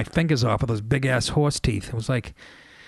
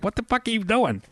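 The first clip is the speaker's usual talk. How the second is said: high, incredulous wife voice; mock the wife's disbelief; wife's baffled question; 9 semitones higher than usual. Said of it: "My wife's like".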